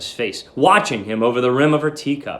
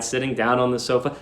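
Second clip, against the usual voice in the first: ordinary delivery, nothing marked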